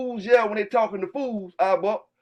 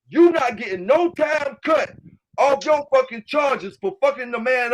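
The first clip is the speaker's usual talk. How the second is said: shout; 3 semitones higher than usual. Real, not acted. Ranting at dog fighters on stream.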